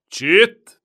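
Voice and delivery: loud, high snapped shush; sharp hush. A narrator's reading. Turk hushing the shouting boy harshly. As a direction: silence the boy at once.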